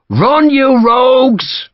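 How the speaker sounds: high, slow, bellowed command; shouted order. Acted. Major driving his Irishmen into the charge, bellowing. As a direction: drive them on with a roar. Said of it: "he shouted".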